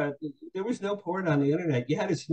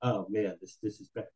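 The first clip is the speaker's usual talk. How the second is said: low, sinking mutter to himself; retold dismay; 5 semitones lower, 5 dB quieter than usual. Young man looking at himself, quietly dismayed. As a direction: drop into quiet, mock despair. Retelling his own dismayed thought.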